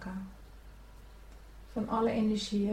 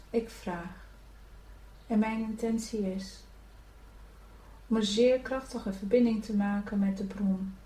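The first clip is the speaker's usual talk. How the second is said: prayer; 3 dB quieter than usual. Acted. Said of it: "je kan in jezelf bij nazeggen".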